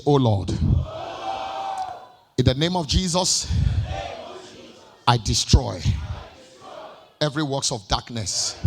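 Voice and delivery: slow, drawn-out prayer line; prayer declaration. Shown as a demonstration. Pastor leading the congregation in a prayer, slow. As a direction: lead the church word by word. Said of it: "Help me shout it".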